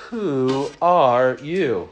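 slow, drawn-out caterpillar question. Retold or imitated. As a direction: stretch it out like the lazy caterpillar. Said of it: "Remember Alice in Wonderland?".

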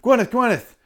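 shrill, loud, high hounding reporter; high, loud mock paparazzo calling after a star; eager reporter. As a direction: yap it out like a pushy tabloid reporter. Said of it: "being like".

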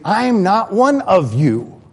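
an outsider's fed-up outburst; defiant outsider. Acted. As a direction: shove back at the church people. Outsider pushing back at church.

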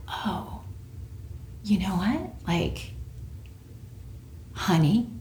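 quiet and gentle, tone softened; soft, gentle shift. Retold or imitated. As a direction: ease off into a gentle hush. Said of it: "the tone of my voice changed".

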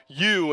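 YOU said with emphasis; emphatic YOU. Retold or imitated. Jesus singling out the twelve, emphatic YOU. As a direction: lean firmly on the word YOU. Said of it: "is em-, emphatic".

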